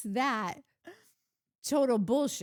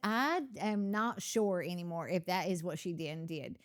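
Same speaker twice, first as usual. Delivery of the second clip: put-on Southern accent; 2 semitones lower, 4 dB quieter than usual. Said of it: "it's her best accent".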